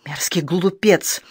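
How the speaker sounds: a slow, spat-out burst of anger; outburst. Acted. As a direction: explode at the memory of him. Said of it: "снова взорвалась она". (медленно, со злостью выплюнуто)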